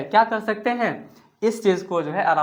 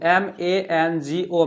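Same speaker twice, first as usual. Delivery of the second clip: drawn-out classroom spelling; slow spelling; much slower than usual. Shown as a demonstration. Teacher writing stomach on board, spelling slowly. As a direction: spell stomach out one letter at a time, very slowly. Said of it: "यहाँ लिखते हैं mango".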